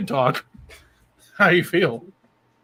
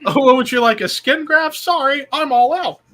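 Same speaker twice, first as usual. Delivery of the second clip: puppet voice; 9 semitones higher, 4 dB louder than usual. Retold or imitated. Voicing the puppet's sarcastic reply.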